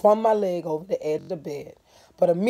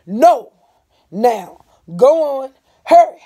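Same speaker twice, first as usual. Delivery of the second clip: loud, high urging; urgent; 9 semitones higher, 15 dB louder, slower than usual. A narrator's reading. Stacy rushing Cassie back to bed, loud and urgent. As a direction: hurry them out the door.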